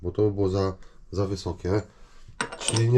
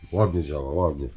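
usual speaking voice

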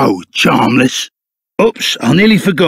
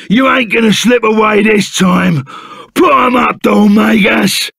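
challenging shout; 2 semitones higher than usual. Acted. Confronting the villain Dalmagus.

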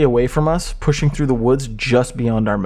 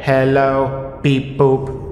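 flat mechanical robot hello; much slower than usual. Acted. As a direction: beep boop like a toy robot. Mocking robot voice.

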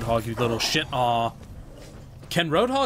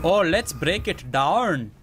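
hype shout; 3 semitones higher, 3 dB louder, slower than usual. Retold or imitated. Lucio voiceline again.

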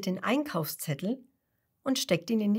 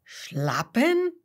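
puzzled question; 5 semitones higher, 4 dB louder than usual. A narrator's reading. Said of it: "fragt Kasper".

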